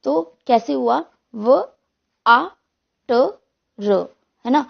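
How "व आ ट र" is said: "व आ ट र" as four isolated sounds; "व आ ट र" spelled out by sound, widely spaced; phoneme by phoneme. Shown as a demonstration. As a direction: sound out "व", "आ", "ट", "र" with a pause after each. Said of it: "four phonemes".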